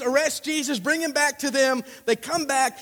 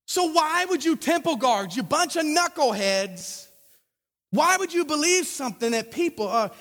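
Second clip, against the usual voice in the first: emphatic, higher, incredulous scolding; berating; 4 semitones higher than usual. Acted. Pharisees to knucklehead temple guards, berating disbelief. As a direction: dress down a bunch of fools.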